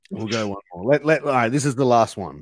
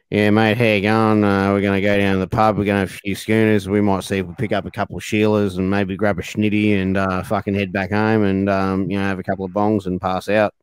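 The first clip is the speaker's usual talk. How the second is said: broad Australian bogan voice, lower; Australian bogan accent; 5 semitones lower than usual. Shown as a demonstration. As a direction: play a laid-back Australian bogan. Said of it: "an Australian person who talks like this".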